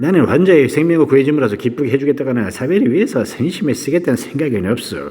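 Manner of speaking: sneering, derisive voice.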